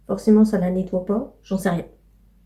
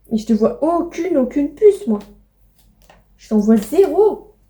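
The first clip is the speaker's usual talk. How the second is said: playful pet scolding; 2 semitones higher than usual. Real, not acted. Owner scolds the pets over the dog treats, teasing. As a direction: tease the dog about its treats.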